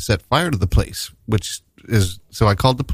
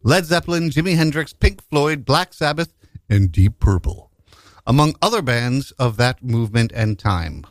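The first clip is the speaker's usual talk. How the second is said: ad read; 3 semitones higher than usual. Acted. Reads a gig ad.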